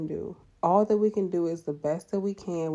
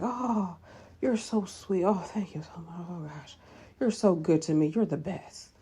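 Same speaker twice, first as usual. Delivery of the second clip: patient's gushing thanks. Retold or imitated. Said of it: "the patient's like".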